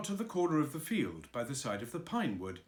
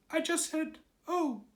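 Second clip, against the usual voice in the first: nervous; 3 dB louder than usual. Acted. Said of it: "said Piglet nervously".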